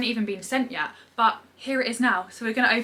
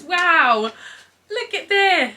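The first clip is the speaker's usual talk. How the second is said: high, loud exclamation of wonder; amazed; 9 semitones higher, 7 dB louder, much slower than usual. Real, not acted. Vlogger reveals her new device, amazed. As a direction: burst out in delighted amazement.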